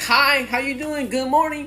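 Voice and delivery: high, sing-song cheery greeting; overly friendly locals. Retold or imitated. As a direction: gush hello like a too-nice stranger. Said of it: "everybody was saying that shit".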